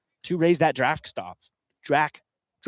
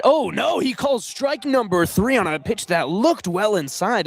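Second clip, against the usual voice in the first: surprised play-by-play; 5 semitones higher than usual. Real, not acted. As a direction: pitch leaps up on a shocked call. Surprise call on strike three.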